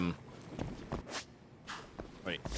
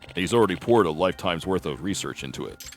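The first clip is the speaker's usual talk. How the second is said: lower, measured explaining voice; calm professor; 4 semitones lower than usual. Acted. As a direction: lay out the history patiently.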